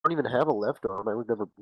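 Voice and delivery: high, loud indignant shouting at mom; hammed-up angry protest to his mom; mock outraged yell. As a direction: whine it up high and loud like a wronged kid. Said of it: "And I was like".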